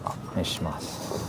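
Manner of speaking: mumbled nerdy order; shy nerd mumbling. Acted. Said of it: "I'm gonna talk like a nerd".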